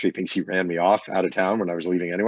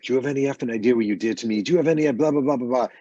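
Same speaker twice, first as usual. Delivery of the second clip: fast, rising angry rant, mock-retold; chewing out; 5 semitones higher, 3 dB louder, faster than usual. Rocker chewing out the reporter in the tunnel, retold angry rant. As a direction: hammer him with questions, pitch climbing. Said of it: "He's chewing me out".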